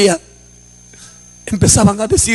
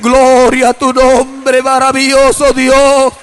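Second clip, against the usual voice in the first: slow, stretched cries of praise; retold exultant praise, full-voiced; wife praising God; slower than usual. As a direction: imitate fervent worship, drawing out each word. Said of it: "mi esposa empieza a decir".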